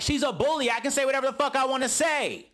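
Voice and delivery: high, fast, defiant outburst; mock defiant rant. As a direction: fire back, refusing to back down. Suki defiant.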